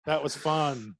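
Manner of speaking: laughing through a giddy reply; laughing relief. Retold or imitated. Hearing he got the job, laughing giddy reply. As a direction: let the laugh spill into the words. Retold reaction to getting hired.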